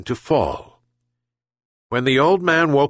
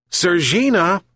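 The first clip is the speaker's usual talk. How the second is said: shouted call; 8 semitones higher than usual. A narrator's reading. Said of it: "shouted the old fisherman".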